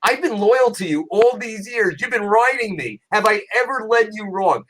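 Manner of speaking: a hint of a loyal donkey complaining; talking donkey. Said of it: "the donkey says".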